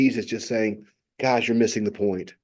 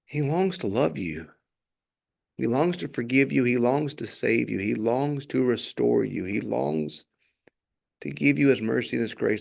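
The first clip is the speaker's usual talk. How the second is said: tender appeal. Acted. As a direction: coax them gently, like an invitation.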